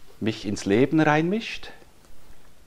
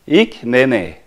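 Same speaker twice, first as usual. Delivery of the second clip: lightly voiced small child, a bit louder; toddler voice; 8 dB louder than usual. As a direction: mimic a little girl naming herself. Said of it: "jedes Mal, wenn ich gefragt habe". (angedeutete Kinderstimme)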